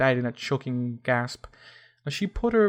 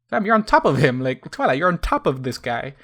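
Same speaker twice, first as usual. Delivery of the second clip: exasperated aside; 2 semitones higher, 5 dB louder than usual. Real, not acted. Narrator breaks character, comic aside.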